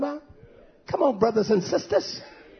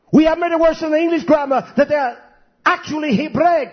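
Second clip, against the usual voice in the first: raised, insistent preaching voice; impassioned preaching; 5 semitones higher, 4 dB louder than usual. Real, not acted. Preacher urging listeners to understand sentence structure, insistent. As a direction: press the point hard, pitched up.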